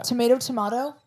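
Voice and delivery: "tomato" as tuh-MAY-toe, then tuh-MAH-toe; loud set phrase, "tomato" with ay, then ah; contrasting pronunciations. Shown as a demonstration. Host quoting a famous phrase, "tomato" said two ways. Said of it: "That phrase is".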